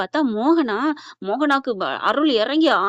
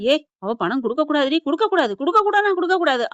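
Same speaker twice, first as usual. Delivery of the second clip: insistent refusal; 4 semitones higher than usual. Retold or imitated. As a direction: pitch climbing with each repeat. Insisting she must not pay. (பிடிவாதமாக மறுக்கும் நடிப்பு)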